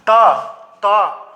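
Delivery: "त" as an open syllable, t plus short a; isolated demo of "त" with audible vowel; inherent vowel sounded. Shown as a demonstration. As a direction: let the vowel ring after the t in "त". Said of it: "अ का उच्चारण हो रहा है ना".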